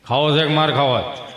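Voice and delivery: low, stern threatening father. Retold or imitated. Father asking if the kid wants a beating. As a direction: drop low and menace the kid.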